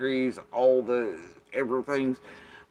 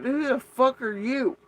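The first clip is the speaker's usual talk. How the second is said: much higher, slow, drawn-out disbelief; incredulous outburst; 12 semitones higher, 4 dB louder than usual. Retold or imitated. Confronting her brother over his behaviour, incredulous outburst. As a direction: demand it like you can't believe him.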